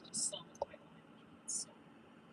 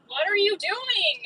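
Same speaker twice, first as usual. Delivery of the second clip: slow, louder and higher, stretching every word; drawn-out exasperation; 10 semitones higher, 7 dB louder, much slower than usual. Real, not acted. After a near miss, slow exasperated repeat. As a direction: let the disbelief drag each word out. They almost hit me.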